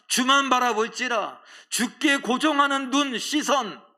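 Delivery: commanding God's voice, high and loud, slowing in places. Acted. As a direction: proclaim as God calling his people to look up. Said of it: "말씀하십니다".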